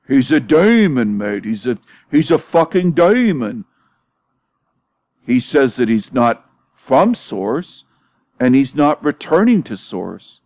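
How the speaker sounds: mock British accent, stretched and swooping high on key words; Love Bum impression, British accent. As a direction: put on an exaggerated, drawn-out British accent. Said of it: "doing my impression of the Love Bum".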